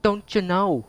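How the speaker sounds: high-pitched attempt at an Irish accent; bad Irish accent. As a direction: put on an exaggerated, poor Irish accent. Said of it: "That's extreme Irish accent".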